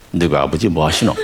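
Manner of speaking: put-on second go at a Gyeongsang accent, rising at the end; mild imitated Gyeongsang accent; Gyeongsang dialect try. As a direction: imitate a Busan local asking, rising on 하시노. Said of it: "흉내내는 것 같죠?".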